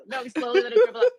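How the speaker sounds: laughing. Real, not acted. Laughing while joking about dribble.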